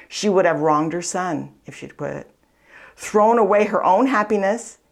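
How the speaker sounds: spiritual book read aloud with feeling. Acted. Speaker reads a book passage to listeners, earnest reading voice.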